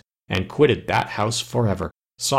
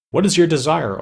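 crying out; 6 semitones higher, 4 dB louder than usual. A narrator's reading. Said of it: "cried out".

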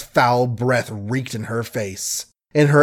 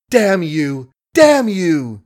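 higher and louder the second time; screaming curse; 6 semitones higher, 4 dB louder, slower than usual. A narrator's reading. Margaret screams at the man who killed Billy. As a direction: hurl the curse at him. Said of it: "she screamed".

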